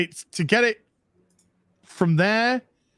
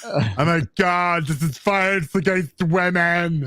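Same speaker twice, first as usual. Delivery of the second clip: mock outrage; 3 semitones higher than usual.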